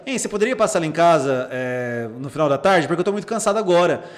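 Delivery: mildly polite request; polite reading. Shown as a demonstration. Therapist rereading a patient's message another way, politely. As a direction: read it as a courteous, unhurried ask. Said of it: "deixa eu ler de outro jeito".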